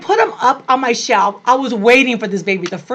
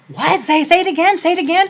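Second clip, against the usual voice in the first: stunned disbelief; 8 semitones higher, faster than usual. Retold or imitated. Hearing of the pregnancy.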